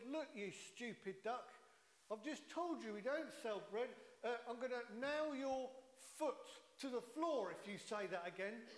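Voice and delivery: annoyed barman. Acted. Joke barman losing patience with the duck, mock angry. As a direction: play the fed-up barman snapping at the duck.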